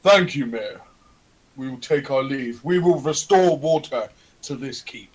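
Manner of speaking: addressing the mayor. Acted. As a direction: announce it formally to the mayor. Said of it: "I say to the mayor, I go".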